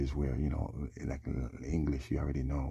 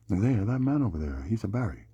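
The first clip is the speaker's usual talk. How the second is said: calling out; 6 semitones higher, 5 dB louder than usual. Shown as a demonstration. Acting out pointing a man out.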